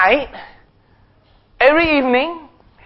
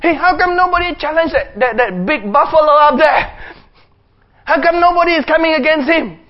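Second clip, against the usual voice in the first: put-on higher, eager boyish question; boy David asking; 4 semitones higher than usual. Young David asking the soldiers why nobody fights. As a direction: ask it like a fearless young boy. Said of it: "He says".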